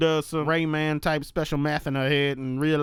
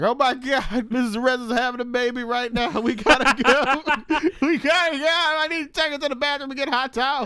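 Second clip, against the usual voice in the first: panicked high voice; 8 semitones higher than usual. Retold or imitated.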